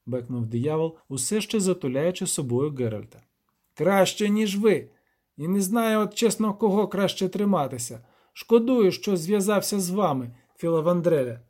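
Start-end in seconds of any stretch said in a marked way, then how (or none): 3.7-11.4 high, bleating little devil, indignant; a furious goat-man ordering intruders off his land; higher bleating creature scolding hunters. Acted. Devil Torkve complaining.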